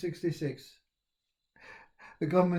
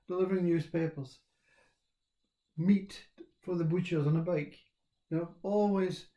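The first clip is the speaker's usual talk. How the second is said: mock-earnest inner voice building steadily higher; the mind's voice; 3 semitones higher than usual. His mind telling him how he was pushed all his life, in a rising mock lecture. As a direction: voice the nagging mind, growing more excited. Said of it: "we have a mind that says".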